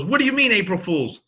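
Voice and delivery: high, loud mock indignation; outraged daughter. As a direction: imitate a daughter shocked by the prank. Daughter runs up, outraged at prank.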